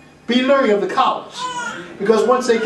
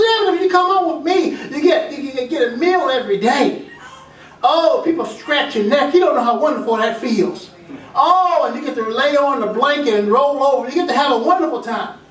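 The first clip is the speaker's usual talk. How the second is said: coaxing nice dog; 3 semitones higher than usual. Acted.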